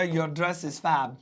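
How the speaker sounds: Your dress is fab stretched word by word, fab landing last; teacher slowly showing the short form fab to students; very slow model line. Shown as a demonstration. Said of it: "लेकिन अब मैं बोलूंगा".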